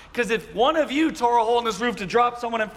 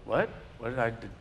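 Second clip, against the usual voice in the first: startled teacher; 5 semitones lower than usual. Retold or imitated. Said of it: "that should have woke him up".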